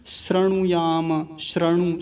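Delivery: श्रृणुयाम starting "sra", not "shri"; common mistake. Shown as a demonstration. Teacher quoting others' error, श्रृणुयाम as "sra-nu-ya-ma". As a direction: put an "a" after sr in श्रृणुयाम. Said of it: "कुछ लोग बोलते हैं".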